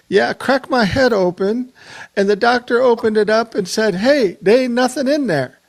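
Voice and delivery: a fond Navajo accent impression of an old radio friend; Harry Billy's Navajo accent. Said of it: "a Navajo accent".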